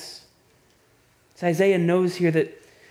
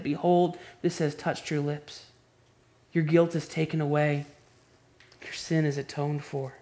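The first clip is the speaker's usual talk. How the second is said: scripture reading. Acted. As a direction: read it as heavenly praise, unhurried. Reads Isaiah's vision aloud.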